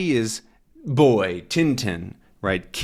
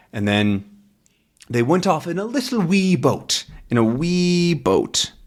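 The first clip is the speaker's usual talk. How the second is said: put-on Scottish accent. Old man's tale.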